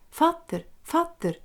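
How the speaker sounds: high eager call to his father; boy calling father, high and eager; excited child calling. Acted. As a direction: call out to dad, thrilled.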